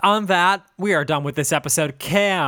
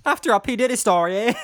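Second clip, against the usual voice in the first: "After a P. Diddy story, eh?" in a mimicked lilt, pitched up on "After"; mimicked cadence; 7 semitones higher, 4 dB louder than usual. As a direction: parrot "After a P. Diddy story, eh?" as a higher singsong echo. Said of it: "Just the whole cadence of sentence".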